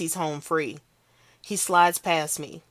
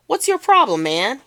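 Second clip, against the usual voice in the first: much higher, louder challenge; angry yell; 8 semitones higher, 8 dB louder than usual. Acted. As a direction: snap back in defiance. Kid confronting narrator.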